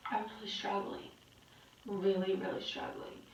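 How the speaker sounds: quiet, heavy confession after a long pause; subdued admission. Real, not acted. Confiding to viewers after a few bad days, subdued. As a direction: let it out softly, struggling to cope. Admits she is not coping.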